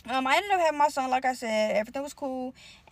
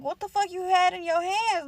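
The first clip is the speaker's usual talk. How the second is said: shocked; 6 semitones higher than usual. Retold or imitated. Shocked at sister's brass knuckles.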